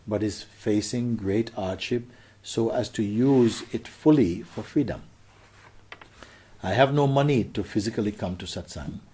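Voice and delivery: earnest read of a letter; reading a devotee's letter aloud. Acted. Reads out a listener's letter.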